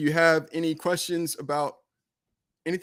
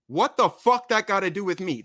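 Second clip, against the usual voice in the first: reading in his tone; 4 semitones higher, 6 dB louder than usual. Retold or imitated. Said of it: "I gotta read it in their tone".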